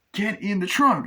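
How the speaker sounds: high-voiced command; actor impression. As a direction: bark the order at him. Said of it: "doing the impressions of the, uh, actors".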